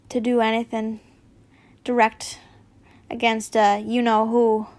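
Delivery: lightly voiced Hagrid; a hint of Hagrid's hearty voice.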